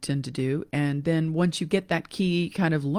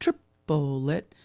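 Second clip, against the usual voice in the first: triplet with the first syllable stressed; accent on first syllable. Shown as a demonstration. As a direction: lean on TRIP in triplet. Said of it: "with an accent on the first strong".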